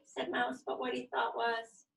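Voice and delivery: put-on lively storybook reading for kids; reading to children. A narrator's reading. Yoga teacher reading a picture book to her class, lively. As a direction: read it out bright and animated for little ones.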